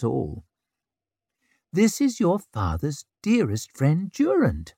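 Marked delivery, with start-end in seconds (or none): 1.7-4.7 cooing. Acted. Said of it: "she cooed at the babies".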